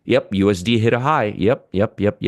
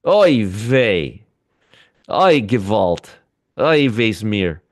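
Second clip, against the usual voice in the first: Yiddish exclamations; 2 semitones lower, much slower than usual. Pretend. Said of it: "the only three words I know in the Yiddish".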